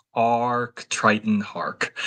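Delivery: restrained, toned-down, contained, even delivery. After yelling muted the recording, saying the character's line again quietly. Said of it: "I'll do quiet".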